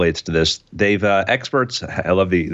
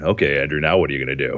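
lower, imitating a creepy stranger; lightly voiced creepy guy in the corner; a hint of a lower creepy voice; 5 semitones lower, faster than usual. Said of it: "creepy guy standing in the corner going".

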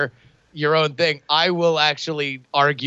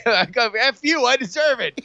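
smug defiance; 8 semitones higher than usual. Retold or imitated. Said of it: "come back at yourself with your smug judgment".

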